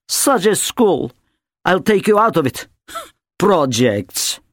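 contemptuous mother. A narrator's reading. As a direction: dismiss the school with disgust. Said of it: "Natasha scoffs at school".

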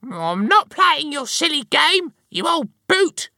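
very high, loud angry wife; furious high-pitched yell; bellowing. A narrator's reading. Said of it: "she bellowed".

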